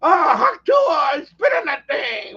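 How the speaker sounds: put-on slow, loud, slurred drunk shout; drunk woman imitation. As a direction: yell it like a tipsy girl outside a bar. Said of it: "And she was saying".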